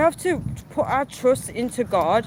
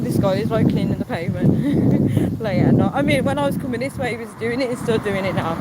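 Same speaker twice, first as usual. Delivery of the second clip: talking while jogging; out of breath from running. Real, not acted. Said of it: "I'm, like, running".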